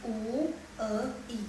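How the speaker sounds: U, E, I sounded one by one; broken into sounds. Shown as a demonstration. Teacher breaking down hui for class, vowels separated. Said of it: "Jadi bacanya kayak".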